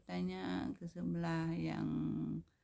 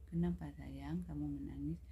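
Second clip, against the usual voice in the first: gentle caring question. Shown as a demonstration. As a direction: ask a crying child kindly, without raising your voice. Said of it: "beda intonasi".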